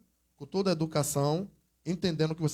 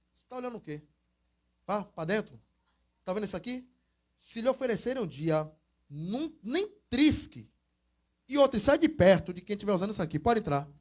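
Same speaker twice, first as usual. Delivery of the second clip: mannish woman. Retold or imitated. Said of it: "ela tinha um jeito meio de homem".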